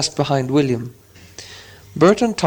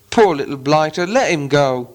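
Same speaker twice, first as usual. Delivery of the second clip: pitying troll. Acted. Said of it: "said William".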